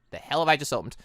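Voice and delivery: ordinary delivery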